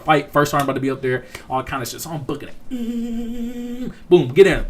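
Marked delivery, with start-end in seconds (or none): 2.7-3.9 long high, soft "mm"; strained hum. Retold or imitated. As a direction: hold a high hum like someone hurrying. Imitates himself hurrying back to barracks.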